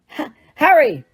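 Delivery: calling his name. Acted. Lupin calling him awake.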